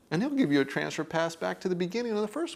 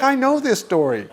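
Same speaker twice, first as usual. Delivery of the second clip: higher and louder, laughing through the words; 8 semitones higher, 9 dB louder than usual. Real, not acted. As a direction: laugh as you say it, amused. Amused, quoting own bored self.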